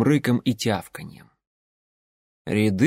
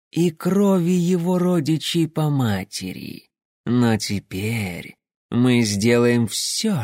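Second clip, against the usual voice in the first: eerie melodic voice; slower than usual. Acted. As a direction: lull them with a strange melodic voice. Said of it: "зазвучал так же завораживающе мелодично".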